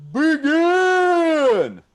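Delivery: loud, high call to begin; game show host yelling go; shouted start. Real, not acted. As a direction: launch the game with a big shout. Host launches improv game.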